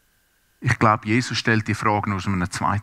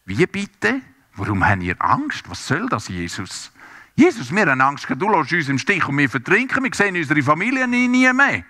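upset disbelief; 5 semitones higher than usual. Acted. Disciples protest Jesus' question.

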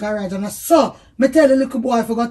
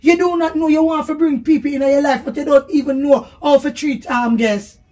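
scolding; 2 semitones higher, 4 dB louder than usual. Real, not acted. Wife scolding husband.

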